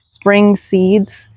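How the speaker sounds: slow, knowing air-quote delivery on spring. Shown as a demonstration. Gardener mocking her own spring seeds with air quotes. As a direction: lean on spring like it has quotation marks. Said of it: "imagine me saying that with quotation marks".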